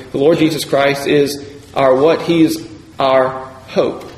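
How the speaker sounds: "He is our... hope", weight on the last word; deliberate, spaced words leading to "hope"; stress on HOPE. Shown as a demonstration. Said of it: "we can put the emphasis on".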